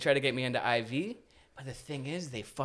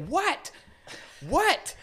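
irritated yell. Retold or imitated. Uncle back at washroom door, imitated irritated yell. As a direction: shout back as the bothered housemate.

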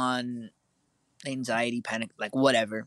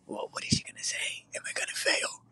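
voiceless worried whisper; retold panicky inner whisper; anxious whisper; 4 dB quieter than usual. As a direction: whisper your fear to yourself. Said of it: "And I was like".

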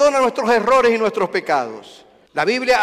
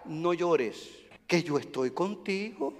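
tender reassurance. Pretend. Preacher voicing God consoling the grieving. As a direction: comfort gently as God.

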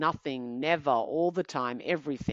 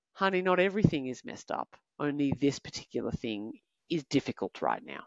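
loving correction; 3 semitones lower than usual. Retold or imitated. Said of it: "correct it with love".

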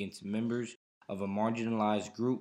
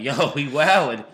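incredulous outburst; 5 semitones higher, 14 dB louder than usual. Real, not acted. Shocked reaction, loud.

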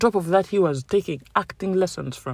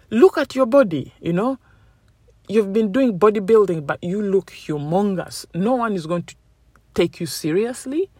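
mocking Hollywood critics; 3 semitones higher than usual. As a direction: sneer down at the bodybuilder like a casting boss. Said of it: "They said".

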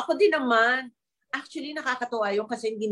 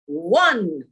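theatrical vampire counting, each number swooping up and down; Count Dracula; 2 semitones higher, 3 dB louder, much slower than usual. Acted. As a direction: count like a drawn-out TV vampire with rolled r's. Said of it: "Naaalala niyo yung si Count Dracula". (pagbilang na parang bampira)

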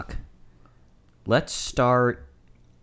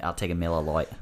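put-on Australian accent; 3 semitones lower, 5 dB quieter, faster than usual. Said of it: "when you say it in an Australian accent".

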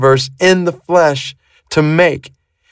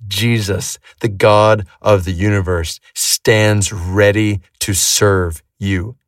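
reflective, hushed; 5 semitones lower, slower than usual. Acted. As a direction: speak it slowly and gently, letting the words settle. Reflective pause after the teaching.

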